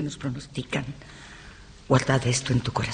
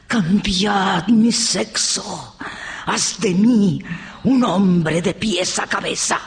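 raised, impassioned plea to spirits; fervent invocation; 4 semitones higher, slower than usual. Acted. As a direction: command the spirits with rising fervour. Commanding spirits to transform her. (invocación ferviente)

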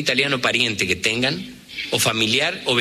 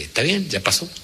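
forgiving friend. Retold or imitated. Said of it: "si el otro tiene grandeza, dice".

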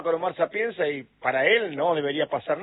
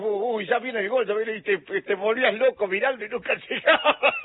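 higher voice breaking into laughter; amused retelling; 4 semitones higher than usual. Retold or imitated. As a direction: tell it jokingly, cracking up at the end. Joking about delayed goal celebrations.

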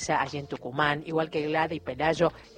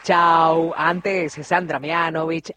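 loud, quick back-announce of the playlist; radio announcer; 3 semitones higher, 7 dB louder than usual. Acted. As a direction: punch out the song list like a live DJ. Radio host back-announcing the songs. (locutor de radio enérgico, anunciando los temas en voz alta)

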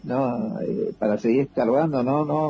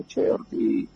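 retold yelling; 7 semitones higher, slower than usual. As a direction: shout for a buried comrade. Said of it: "le grité".

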